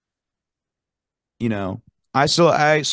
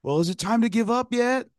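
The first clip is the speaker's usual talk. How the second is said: retold taunting shout; 12 semitones higher than usual. Fan heckling the Marshall huddle, mock shout. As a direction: call out a taunt in a raised pitch, volume held back. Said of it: "and I just shout".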